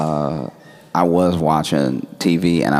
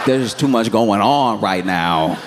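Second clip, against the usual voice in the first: high, louder nervous babble; flustered excuse; 6 semitones higher, 4 dB louder than usual. Retold or imitated. Caught lying to waiting friends, high flustered babble. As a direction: scramble for a lie, voice up high. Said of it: "I was like".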